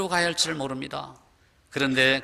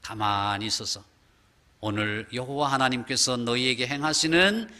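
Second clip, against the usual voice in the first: lower, slow solemn command; voice of God; 3 semitones lower than usual. Acted. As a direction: reassure the trembling people as God. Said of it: "이렇게 말씀합니다". (낮고 느린 엄숙한 명령)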